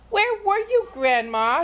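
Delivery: high opening, dropping on the name; eager little girl. Acted. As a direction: ask Grandma in a high girl's voice. Girl questions Grandma.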